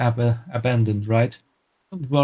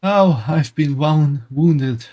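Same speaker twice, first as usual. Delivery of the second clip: wounded cry; 4 semitones higher, 4 dB louder, much slower than usual. Acted. Hammy wounded cry in fight.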